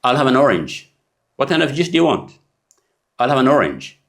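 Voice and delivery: "an" said as a weak schwa-n linked to "orange"; reduced an. Shown as a demonstration. Teacher showing ordering juice. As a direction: blend "an" into "orange". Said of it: "ኣ የለን".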